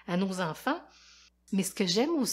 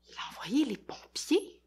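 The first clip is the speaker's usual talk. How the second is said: whisper; 5 semitones higher than usual. A narrator's reading. Aside whispered to listening kids.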